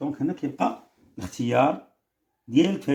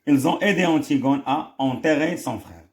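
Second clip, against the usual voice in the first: slow, careful dictation read; reading aloud; 3 dB louder, much slower than usual. Shown as a demonstration. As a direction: read it out slowly for the class. Reads French answer slowly. (قراءة بطيئة للإملاء)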